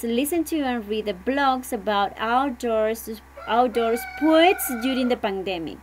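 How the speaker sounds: slow, careful reading of the title; reading instructions aloud. Shown as a demonstration. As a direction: read it out slowly for the students. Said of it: "And it says". (maestra lee el título a los alumnos, despacio)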